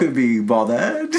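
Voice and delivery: slow, drawn-out British caricature; mock English accent. Co-host teasing about English accents, mock British accent. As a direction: put on a silly English voice. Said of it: "make fun of the English accent".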